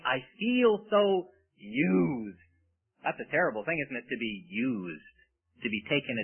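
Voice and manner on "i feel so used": slow, drawn-out mock whine; mock self-pity. Preacher mocking worldly people who feel used, slow mock whine. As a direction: drag it out like a sulking victim.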